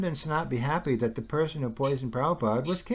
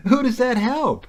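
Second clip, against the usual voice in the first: higher and louder, hammering the question; emphatic repeat; 7 semitones higher, 5 dB louder than usual. Real, not acted. Speaker to listener, pushing his point harder, emphatic. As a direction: press the question home, incredulous.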